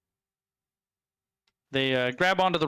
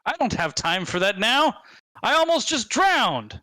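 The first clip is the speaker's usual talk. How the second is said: indignant goblin; 5 semitones higher than usual. Acted. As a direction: sputter it out, put upon. Goblin indignant after near drowning.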